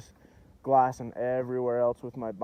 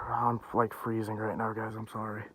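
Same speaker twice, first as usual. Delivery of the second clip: shivering; 7 dB quieter than usual. Real, not acted. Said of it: "I am so cold and shaky right now".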